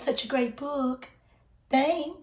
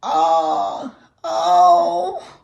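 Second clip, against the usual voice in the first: high, loud dismayed wail; alarmed cry; 8 semitones higher, 7 dB louder than usual. Acted. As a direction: cry out in cartoon panic. Larry alarmed at many copies.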